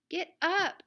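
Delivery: loud, high wake-up shout. Acted. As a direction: bellow get up to sleepy dogs. Waking the sleeping dogs.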